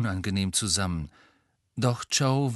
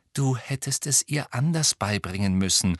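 patient; 2 semitones higher than usual. Acted. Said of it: "unerträglich geduldigen Gehabe".

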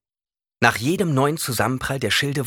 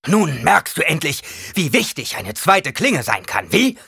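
groaning; 7 semitones higher, 6 dB louder than usual. Acted. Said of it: "ächzte Halleck".

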